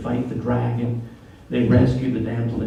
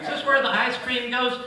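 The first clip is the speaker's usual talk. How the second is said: mock clueless; 10 semitones higher than usual. Mock dumb husband question.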